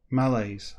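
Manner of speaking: "Malaise" as MAL-ayz; chosen pronunciation. Shown as a demonstration. Reader settling on a version, "Malaise" as MAL-ayz. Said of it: "I'm gonna go for that".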